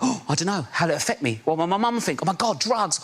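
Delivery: lightly acted fretful teenager, ending in a gasp; fret, then gasp at the idea; naive eighteen-year-old. Eighteen-year-old offered drugs on a night out, mock nervous. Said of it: "when I was eighteen on a night out".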